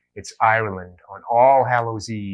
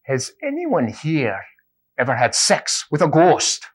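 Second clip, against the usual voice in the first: priest voice; 5 semitones higher, 4 dB louder than usual. Acted. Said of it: "So he says".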